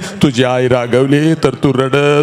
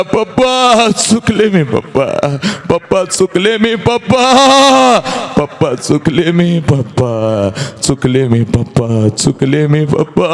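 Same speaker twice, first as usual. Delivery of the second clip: tearful apology. Acted. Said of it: "सांग बापाला".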